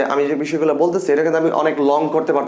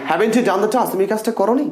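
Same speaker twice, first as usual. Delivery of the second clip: emotional question; 6 semitones higher than usual. Shown as a demonstration. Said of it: "একটু smart করে বলা try করবেন".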